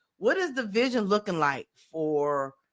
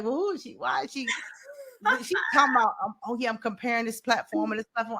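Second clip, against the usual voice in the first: mocking; 4 semitones higher, faster than usual. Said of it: "I be like".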